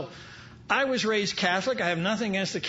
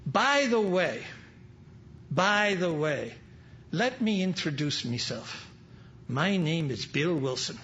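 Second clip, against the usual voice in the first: lightly voiced Irish priest, slow pause between the repeats; a hint of an Irish priest's brogue; 2 semitones lower than usual. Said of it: "in his Irish brogue says".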